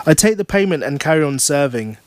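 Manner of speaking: lively audiobook reading, pitched a little up; measured story reading with lifted phrase openings; story narration. A narrator's reading. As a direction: read it as a wry first-person storyteller. Reading own novel aloud.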